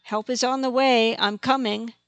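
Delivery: calling out. Acted. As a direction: call ahead to reassure. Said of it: "she called out".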